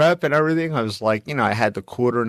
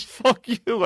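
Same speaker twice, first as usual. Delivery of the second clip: retold curse; 8 semitones higher than usual. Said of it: "He says".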